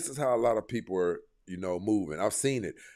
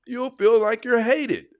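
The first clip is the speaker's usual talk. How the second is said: heated emphasis; 12 semitones higher, 8 dB louder than usual. Real, not acted.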